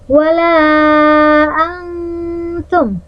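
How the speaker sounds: "Wala antum" with the n blurred toward t, pitch rising; hidden n. Shown as a demonstration. Teacher showing ikhfa hakiki, blurred n. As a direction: soften the "n" of "antum" so it slides into the t. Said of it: "Bacanya harus menyerupai huruf ta".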